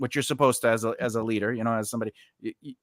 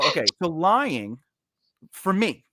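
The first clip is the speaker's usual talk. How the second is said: silent rage; 3 semitones higher than usual. Retold or imitated. Boss explaining lying to a worker, contained rage. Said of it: "I was raging in silence".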